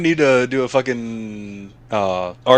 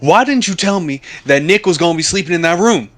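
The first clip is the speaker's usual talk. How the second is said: high, fretting mom voice, slowing at the end; imitating his mom; 8 semitones higher than usual. Mom apologizing to her son about the pillow, high and fretting. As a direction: play an apologetic, flustered mom. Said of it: "His mom like".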